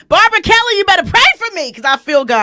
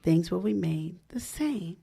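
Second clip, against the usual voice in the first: slow, breathy whisper; 5 semitones lower, 11 dB quieter, slower than usual. Real, not acted. Host savoring the definition in a whisper.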